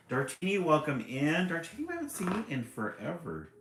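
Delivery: bright loud shout-out to a viewer; calling out greeting. Real, not acted. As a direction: hail a friend arriving.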